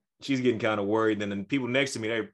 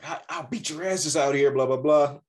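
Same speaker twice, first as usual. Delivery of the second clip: half-hearted imitation of a yelling dad; raised but held-back mock threat; mock yelled threat; 3 semitones higher than usual. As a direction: act out a dad threatening his kids, mildly. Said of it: "yelling at his kids at the top of his lungs".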